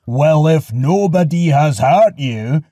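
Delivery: loud, slow giant's shout; booming neighbour giant. A narrator's reading. Cyclops neighbours answer Polyphemus from outside, booming shout. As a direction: boom it back into the cave. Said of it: "came the voice of his neighbours".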